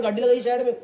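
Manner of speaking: lightly imitated Haryanvi accent; खड़ी Haryanvi. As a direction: mimic the big man's Haryanvi order. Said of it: "एकदम खड़ी हरियाणवी में बोला". (हरियाणवी लहजे में हुक्म)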